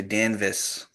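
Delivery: Boston accent Danvis with no r. Shown as a demonstration. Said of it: "you gotta say Danvis".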